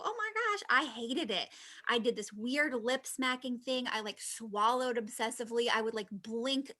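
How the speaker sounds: lightly voiced dismayed newbie; a hint of a groaning beginner; imitating Suzanne. Mimicking Suzanne complaining about her first live. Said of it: "be like Suzanne and go live and then go".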